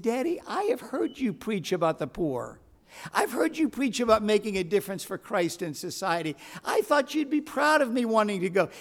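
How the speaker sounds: imitating a hurt daughter's plea; lightly voiced upset daughter, pitch climbing. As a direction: appeal to dad, mildly hurt. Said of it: "she was upset".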